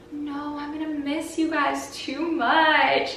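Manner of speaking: high, pleading mock voice; imitating the host. Girl mimics the clingy host begging them to stay, high mock plea. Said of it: "he just kept being like".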